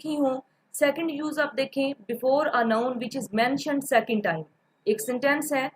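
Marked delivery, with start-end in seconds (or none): 1.9-4.4 slow dictation. Shown as a demonstration. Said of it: "reading the rule aloud".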